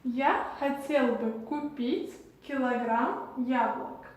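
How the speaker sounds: "Я хотел бы купить килограмм яблок" in careful separated chunks; Russian demonstration. Shown as a demonstration. Teacher showing how to buy apples, Russian demonstration. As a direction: model "Я хотел бы купить килограмм яблок" for learners, pausing between word groups. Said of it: "En russe, on va dire".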